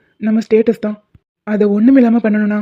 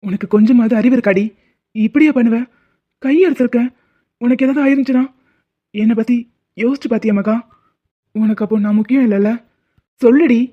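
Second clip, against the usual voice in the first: scolding her, a little raised, sharpest at the end; angry scolding. Acted. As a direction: tell her off in a mild, hurt anger. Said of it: "ஏங்க கத்துறீங்க?". (கோபமாக திட்டுதல், கடைசியில் சற்று உரத்த குரல்)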